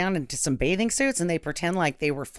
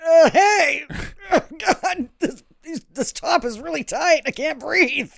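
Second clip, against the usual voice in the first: put-on squeezed bikini girl; 10 semitones higher, 5 dB louder than usual. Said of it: "and I'd be like".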